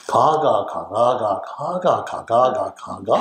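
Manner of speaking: playful Gyeongsang 가가 chant with jumping pitch; Gyeongsang dialect demo. Shown as a demonstration. Preacher showing the congregation Gyeongsang talk, lively Gyeongsang accent. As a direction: bounce through 가가 like a Gyeongsang local. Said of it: "경상도 말인데요".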